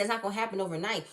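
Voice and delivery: rattled off fast, brushing it aside; fast, dismissive quote of an excuse; quick mock quote. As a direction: toss it off quickly as a lame excuse. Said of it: "And he said".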